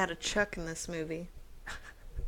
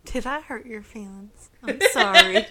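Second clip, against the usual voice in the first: sarcastic; 2 semitones higher, 10 dB louder than usual. Acted. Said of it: "that would be sarcasm".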